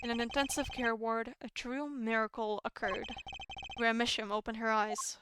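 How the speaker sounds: measured, understated narrator read; story narration. Acted. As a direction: read it out soberly, like a case record. Reads game's narration aloud.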